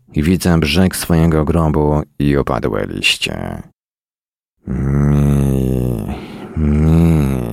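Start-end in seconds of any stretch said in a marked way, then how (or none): 4.7-7.4 drawn-out, level "mi" that stops short; failed attempt to speak. A narrator's reading. Freezing man tries to say "sleep", lips failing, drawn-out mumbled syllable. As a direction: hold the syllable, as if the lips won't cooperate. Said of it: "usta nie współpracują".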